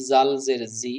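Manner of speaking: জাল জের জি with a plain জ sound; wrong pronunciation. Shown as a demonstration. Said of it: "বেশি শুদ্ধ হয়নি". (ভুল উচ্চারণে জাল জের জি)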